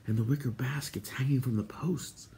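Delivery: soft, breath-only question; whispered. A narrator's reading. Terran asking about the hanging baskets, whispering. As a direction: whisper it from hiding. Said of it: "Terran whispered".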